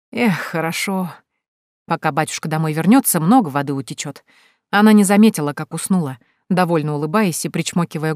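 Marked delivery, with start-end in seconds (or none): 0.1-4.2 contented tipsy sigh. Acted. Tipsy girl content after laughing.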